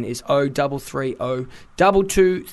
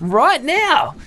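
higher and louder "now", bossy; mock firm order; 10 semitones higher, 5 dB louder than usual. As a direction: put the gym hog in his place. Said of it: "I'm like".

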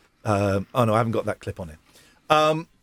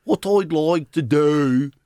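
put-on Brummie accent.

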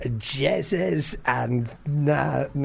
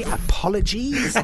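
laughing apology; 9 semitones higher than usual. Real, not acted. Sheepish apology to Liverpool listeners.

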